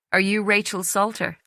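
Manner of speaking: gentle Irish lilt; soft Irish accent. A narrator's reading. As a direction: speak softly in an Irish accent. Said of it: "in a soft Irish accent".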